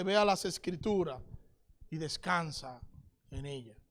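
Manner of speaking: low, soft voice fading away; gentle reassurance. Acted. The Lord puts rest in your mind, gentle hushed counsel. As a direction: soothe them, sinking almost to a hush.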